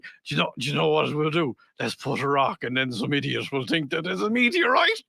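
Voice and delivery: lightly played drunken Irishman; mock drunk Irish voice; drunk Irish guy. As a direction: scheme like a tipsy Irish prankster. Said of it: "I can just imagine the two of them".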